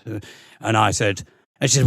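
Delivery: normal talking voice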